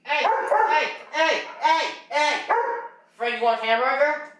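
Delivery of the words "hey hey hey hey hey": calling the dog. Real, not acted.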